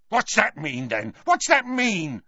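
high, violent yell. A narrator's reading. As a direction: bark it out in sudden rage. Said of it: "yelled the Death Eater, suddenly violent".

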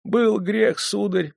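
high, timid admission; meek confession. A narrator's reading. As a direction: own up in a small high voice to a master. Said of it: "признались они". (робкое признание высоким голосом)

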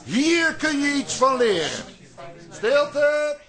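high, commanding call to the room. Acted. Director silencing the rehearsal room, high and commanding. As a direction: hush the whole cast.

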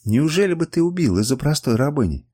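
ordinary delivery, nothing marked

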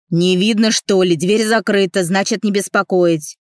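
loud, rude yell through the door; rude shout. Acted. Colleague yelling back through the locked door, loud and rude. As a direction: bark him away from the door.

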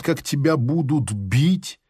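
ordinary delivery, nothing marked

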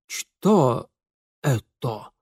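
squeezed out, lips trembling; strained. Acted. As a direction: force the words out shakily. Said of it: "выдавил он".

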